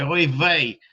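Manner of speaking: slow, drawn-out Yiddish-accented lament; mock Yiddish exclamation. Shown as a demonstration. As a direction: put on a playful Yiddish accent. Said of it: "my Yiddish accent".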